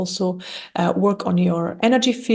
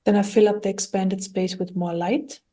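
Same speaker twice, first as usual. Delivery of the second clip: calm, even meditation guidance with long pauses; guided meditation. Acted. Guide talking listeners through clearing their energy, calm guided meditation. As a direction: guide gently, leaving long silences between phrases.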